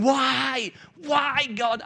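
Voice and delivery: half-hearted imitated wail at God; mildly voiced desperate why; mock screaming at God. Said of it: "I don't think he's screaming at God".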